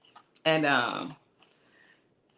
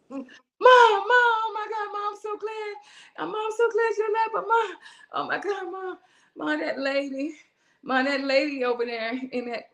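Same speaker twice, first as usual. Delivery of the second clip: much higher, breathless and gushing; excited daughter; 6 semitones higher than usual. Retold or imitated. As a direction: burst out with relief and news. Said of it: "My daughter is in my face like this".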